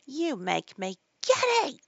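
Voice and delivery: high, loud, stretched complaint; screaming queen. A narrator's reading. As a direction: screech it like an exasperated queen. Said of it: "screamed the Queen".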